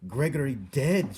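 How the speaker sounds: loud, slow, dramatic cry; shouting. A narrator's reading. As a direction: shout the news, stretched out. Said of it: "shouted Cook".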